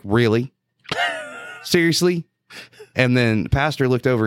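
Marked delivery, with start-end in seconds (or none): 0.0-2.2 disbelief. Retold or imitated. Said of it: "I was like".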